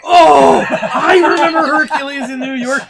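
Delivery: loud, high, laughing shout; excited outburst. Real, not acted. Reminded of an old film among friends, excited shouting. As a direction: burst out with delighted recognition.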